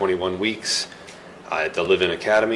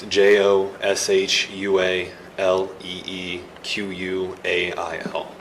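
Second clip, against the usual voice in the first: spelling it out; slower than usual. Real, not acted. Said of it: "spell your full name for the record".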